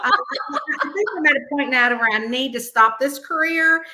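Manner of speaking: said through laughter; laughing inner thought. Retold or imitated. Therapist telling herself to quit, laughing. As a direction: laugh while confessing the thought. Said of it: "I thought".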